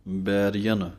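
ਬੈਰੀਅਨ with a long ee on rara; ਬੈਰੀਅਨ, the ree drawn out; Gurbani pronunciation. Shown as a demonstration. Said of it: "ਰਾਰੇ ਬਿਹਾਰੀ ਹੈ".

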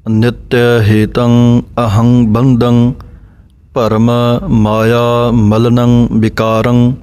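slow measured chanting of the verse; scripture recitation. Acted. Teacher recites the verse for students, slow chant. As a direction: recite the line slowly and evenly.

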